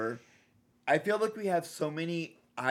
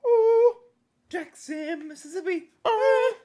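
high eerie ghostly wail; spooky voice; 6 dB louder than usual. Pretend. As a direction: ooh it out like a haunting ghost. Spooky announcing of filming location.

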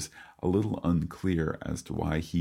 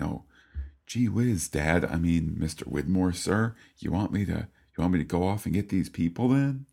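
put-on eager, higher boyish voice; wholesome 1950s kid; 3 semitones higher than usual. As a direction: play an earnest gee-whiz kid talking to Dad. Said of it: "Locke is saying".

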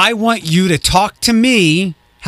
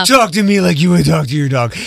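mock quote; 2 semitones higher than usual. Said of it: "the meanest questioner".

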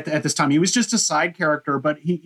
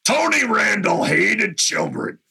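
put-on Gary Marshall's Bronx accent; 4 semitones higher than usual. Podcaster mimicking the author reading his audiobook, Bronx accent. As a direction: imitate an audiobook read in thick Bronx accent. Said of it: "he reads it and his accent".

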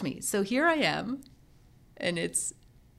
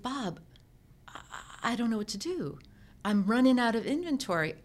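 higher-pitched, mildly distressed; a touch of worry, pitched up; retold helpless plea; 4 semitones higher than usual. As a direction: re-enact appealing to a mentor, at a loss. Retells distressed call to mentor.

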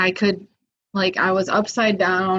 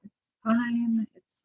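calm self-talk; 2 semitones higher, 7 dB quieter than usual. Retold or imitated. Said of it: "I was like".

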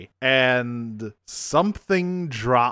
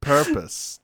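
laughing servant; 2 semitones higher, 5 dB louder than usual. Retold or imitated. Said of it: "this is how I feel this went".

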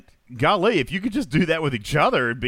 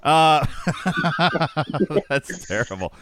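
kind gentle laugh. Real, not acted. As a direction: chuckle warmly while speaking. Laughs at the chat joke.

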